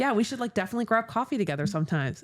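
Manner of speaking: quick, lightly imitated social chatter; put-on meeting-people voice. Shown as a demonstration. Speaker mimics self suggesting coffee to new acquaintance, put-on social voice. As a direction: rattle off a friendly first-meeting invitation. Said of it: "my voice always kinda comes out like this".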